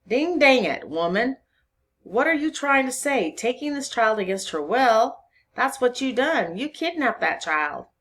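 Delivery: loud, high indignant outburst; exploding in anger. A narrator's reading. Constable exploding at woman over kidnapped child, angry. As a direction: burst out at them, outraged. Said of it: "At this, the constable exploded".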